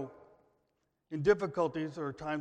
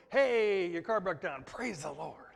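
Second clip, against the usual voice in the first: mock cheerful; 3 semitones higher, 4 dB louder than usual. Preacher mocking joy over a broken car, mock-cheerful. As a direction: play the absurdly happy believer.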